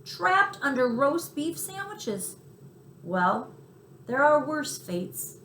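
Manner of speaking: dreaming of sandwiches; relishing mouse. Acted. Tucker muses on being trapped under sandwiches, slow and savouring.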